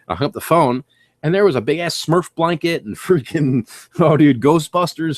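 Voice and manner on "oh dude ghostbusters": excited. Retold or imitated. Finding items at garage sale.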